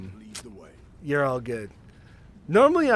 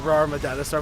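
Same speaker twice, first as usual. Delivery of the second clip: dinosaur voice. Shown as a demonstration.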